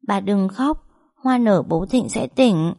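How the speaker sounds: put-on a scared child working up courage to comfort; brave child. Little boy comforts his weeping grandmother, bravely childlike. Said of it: "vẫn can đảm nói".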